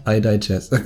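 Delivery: "digest" said in place of digress; slip of the tongue. Real, not acted. German podcaster fumbling his English, mistaken "digest". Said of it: "Not I digest, I mean I digress".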